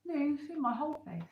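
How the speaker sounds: slightly lisped words around a retainer; talking with a retainer. Real, not acted. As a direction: speak with a retainer in your mouth. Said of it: "I can't talk properly 'cause I've put my retainer back in".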